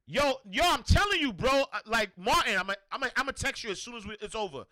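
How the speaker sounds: mock hyped-up bro talk, high and fast; excited hype. Pumped friend promising to text Martin after the show, excited. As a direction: hype your boy up about texting later.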